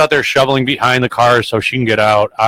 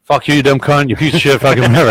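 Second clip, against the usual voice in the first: higher mock rant of insults; retold yelling; 3 semitones higher, faster than usual. Woman cursing the plow driver, replayed for co-host as mock yelling. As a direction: replay her cursing on request, tossed off at the end. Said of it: "She keeps fucking yelling".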